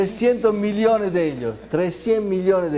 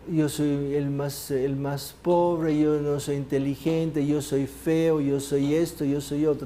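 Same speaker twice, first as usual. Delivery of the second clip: self-pitying list; slower than usual. Acted. Mimicking people lacking self-confidence.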